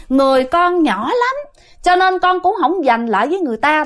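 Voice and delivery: a hint of a frail girl's voice; lightly voiced girl spirit. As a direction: speak as a small child spirit excusing itself. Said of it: "nói chuyển qua giọng nữ".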